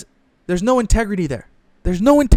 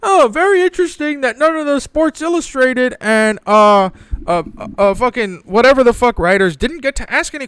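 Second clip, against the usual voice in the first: high, insinuating mock reporter voice; mock smug reporter; 5 semitones higher than usual. Mocking random reporters insinuating a scandal, high and smug. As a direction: play a reporter slyly raising suspicion. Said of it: "and was like".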